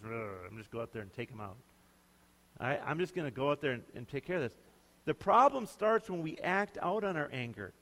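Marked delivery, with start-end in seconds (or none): 0.0-4.6 low growl, muttered like a cowboy itching for a fight; mock-tough gunslinger threat, kept low; John Wayne tough guy. Preacher voicing David going John Wayne, low mock-tough growl. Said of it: "kinda go all John Wayne on 'em".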